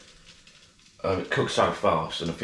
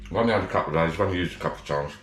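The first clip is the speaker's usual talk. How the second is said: talking with a mouth full; words round a bite of sandwich; faster than usual. Real, not acted. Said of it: "I shouldn't be talking my mouth full".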